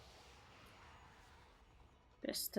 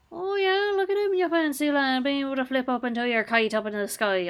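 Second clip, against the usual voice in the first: mocking taunt; 4 semitones higher, 4 dB louder than usual. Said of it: "He thinks he's so flippin' fancy".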